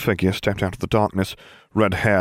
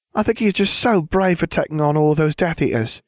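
cooed; 9 semitones higher than usual. A narrator's reading. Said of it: "she cooed".

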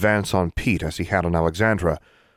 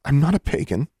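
trembling schoolgirl; 8 semitones higher than usual. Acted. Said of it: "lips trembling".

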